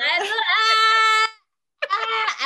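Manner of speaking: high pained yelps, imitated; loud pained cry. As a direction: mimic a loud cry of pain. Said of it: "yo así".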